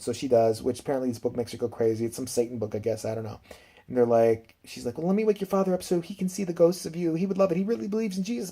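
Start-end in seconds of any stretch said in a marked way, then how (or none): 5.0-8.5 higher-pitched mom voice, lightly acted; retelling a mom in a higher voice; imitating pleading mother. Mother tells ghost children she will wake father, lightly acted high voice.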